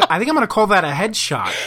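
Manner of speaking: thrilled to call the headshot; excited announcement. Real, not acted. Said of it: "announcing the headshot".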